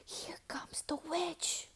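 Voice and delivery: hushed, breathless whisper. A narrator's reading. Scared kids warning each other, whispering. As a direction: whisper it so the witch won't hear. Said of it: "they whispered".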